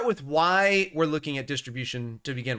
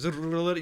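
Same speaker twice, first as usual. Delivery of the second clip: spring doorstop rattling; imitated doorstop buzz; 3 semitones higher than usual. Owner mimicking doorstop his dog smacks, buzzing. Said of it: "and it goes".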